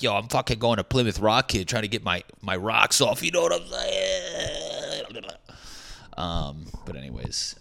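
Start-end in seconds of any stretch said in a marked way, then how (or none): 0.0-5.2 put-on higher, louder Boston accent, last phrase stretched out; hammed-up Boston accent, climbing high at the end; mock Boston accent. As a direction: imitate a cocky Boston kid, drawing out the tag question. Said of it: "They're like".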